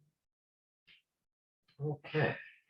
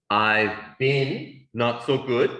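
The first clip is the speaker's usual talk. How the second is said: slow and deliberate; slow model answer; 2 semitones lower, slower than usual. Shown as a demonstration. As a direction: spell it out slowly for learners. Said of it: "Now you can say".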